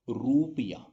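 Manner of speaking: रुपया with a wrongly long oo in रु; long vowel. Shown as a demonstration. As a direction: stretch the रु of रुपया. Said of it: "prolonged नहीं होगा".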